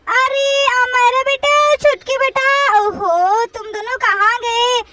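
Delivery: put-on drawn-out motherly call to the children; slow, searching call. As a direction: call the kids from the kitchen, stretching the words. Mother calls out to her children.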